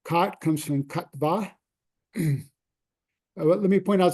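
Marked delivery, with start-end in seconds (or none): 0.8-1.5 Katva with the final A long and stressed; stress on the last A. Shown as a demonstration. Teacher to class showing Sanskrit stress, Katva stressed on the end. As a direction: land the beat on the end of Katva, kat-VAA. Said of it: "there's a little line over the A".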